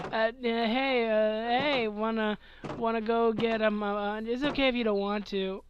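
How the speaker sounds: halting, stuttery ask-out with lots of uh; nervous stammering. Retold or imitated. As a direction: stumble over every word like a shy teen. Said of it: "stammering like".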